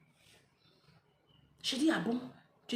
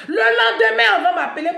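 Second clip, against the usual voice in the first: emotional outburst; 8 semitones higher, 11 dB louder than usual. Real, not acted. Récit de la mort, émotion.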